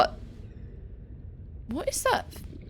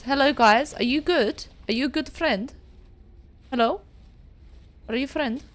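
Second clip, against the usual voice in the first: cooing at penguins; 3 semitones higher, 6 dB louder than usual. Real, not acted. Greeting penguins.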